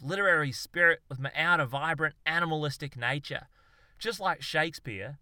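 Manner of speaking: cocky Aussie show-off getting carried away; boastful Aussie bloke. Acted. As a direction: talk up your grand plan like a pub genius. Darwin's long boastful speech.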